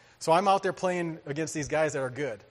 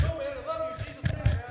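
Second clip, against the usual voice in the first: earnest plea; 10 semitones higher than usual. Retold or imitated. Insisting love to opponent.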